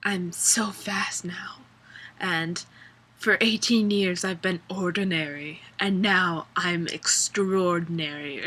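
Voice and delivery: lightly imitating the trailer narration; mock voiceover. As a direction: drag it out like a solemn trailer. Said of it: "she's like".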